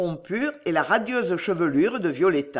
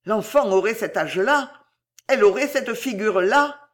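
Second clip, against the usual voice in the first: a giant doubting his own mind, pressing on; agitated executioner fearing madness; frantic executioner. Acted. Claude raves, fearing madness.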